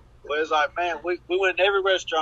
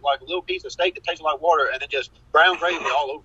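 rapid, run-together rush of words; speeded-up gabble; talking real fast. Real, not acted. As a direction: rattle it off in a hurry. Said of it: "It made him talk real fast".

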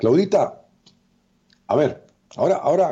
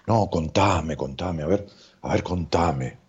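mock dramatic therapist; 3 semitones lower, slower than usual. Psychologist parodies a therapist coaxing the patient, mildly hushed. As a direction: coax the patient with fake interest. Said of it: "esa es la terapia dramática".

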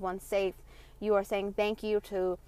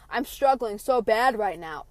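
slow, louder overdramatic whine; mock whiny complaint; 8 dB louder, slower than usual. Podcaster mocking dramatic listeners, slow whine. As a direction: stretch it out like a self-pitying moan. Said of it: "Like, I mean, really".

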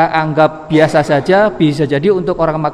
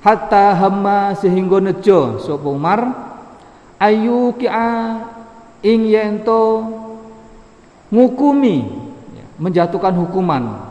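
kitab gloss reading; 2 semitones higher than usual. Acted. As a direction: chant the gloss phrase by phrase. Reads Arabic text with Javanese gloss.

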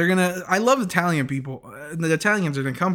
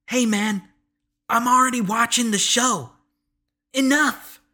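higher, fed-up scolding of the TV; telling the show off, fed up; mock-exasperated plea to the producers; 6 semitones higher than usual.

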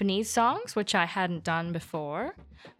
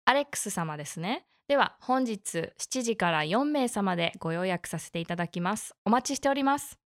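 customer service voice. Acted. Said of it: "I love your beautiful N H K Japanese".

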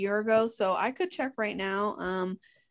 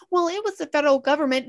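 mocking excuse; 5 semitones higher, 4 dB louder, faster than usual. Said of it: "hearing people go".

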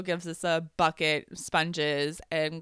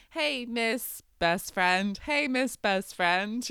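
mild mock yell, slow and raised; drawn-out, higher imitation of a shout; retold shouting; 4 semitones higher, 4 dB louder, slower than usual. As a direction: imitate someone calling out across a yard. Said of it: "they start shouting, like".

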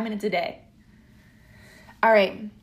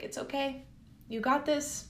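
soft whisper; 10 dB quieter than usual. Pretend. Comforting oneself during a hug.

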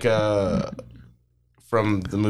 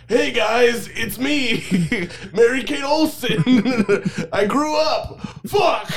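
put-on high squeaky girl voice; 12 semitones higher, slower than usual. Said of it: "It's like".

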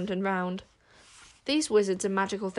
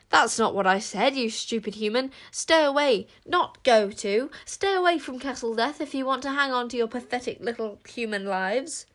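exasperated werewolf; 4 semitones higher than usual. Acted. Werewolf scolding Tsar for mistranslating, angrily. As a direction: tell the stupid human off. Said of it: "got more urgent still".

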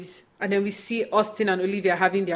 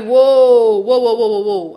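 mock surprised; 8 dB louder, slower than usual. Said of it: "And Austin is like".

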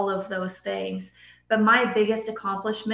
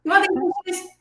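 higher, louder sing-song parent voice; mock parent offering; 8 semitones higher, 5 dB louder than usual. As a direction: act out an overly accommodating mom. Mocking parent offers kids juice.

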